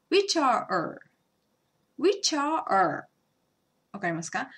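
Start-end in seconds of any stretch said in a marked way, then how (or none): 0.1-3.0 "which are er" with the h dropped, linked smoothly; right way. Shown as a demonstration. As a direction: drop the h and run "are er" together. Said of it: "って言ったらダメですよね". (hを落として「which are er」とつなげる)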